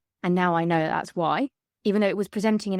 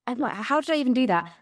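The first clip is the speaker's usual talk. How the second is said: baffled at herself; 8 semitones higher, faster than usual. Retold or imitated. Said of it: "I'm thinking".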